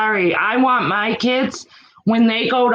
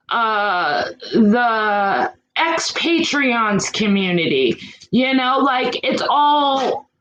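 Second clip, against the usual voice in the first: tearful, voice catching while listing communities; fighting back tears as she talks; crying; slower than usual. Real, not acted. Mom vlogger to viewers about online drama, voice catching with tears.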